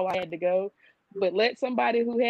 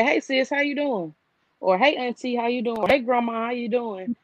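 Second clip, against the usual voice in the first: higher, bright mock greeting; cheery phone greeting; 4 semitones higher than usual. Imitating relatives calling grandma, cheery greeting higher. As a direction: act out a breezy hey-how-you-doing call.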